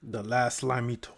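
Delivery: low, soft villain delivery. Shown as a demonstration. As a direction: intone it quietly like a movie villain. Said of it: "You gotta say it like a villain".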